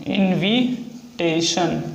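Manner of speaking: slowed teaching pronunciation; slow drawn-out word. Shown as a demonstration. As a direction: stretch each syllable slowly while writing. Repeats word while writing.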